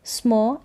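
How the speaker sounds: "स्मो" as a short s joined to a full m with a neutral vowel; half s, full m. Shown as a demonstration. Teacher showing how SM sounds together, half s full m. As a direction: say "स्मो" as one smuh blend. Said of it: "आधा स और पूरा म".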